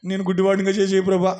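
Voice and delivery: rising loud, begging mock prayer to the Lord; mock pleading prayer. Preacher mocking a believer's prayer, loud pleading. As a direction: ham up a believer's desperate plea. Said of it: "అంటున్నావా?".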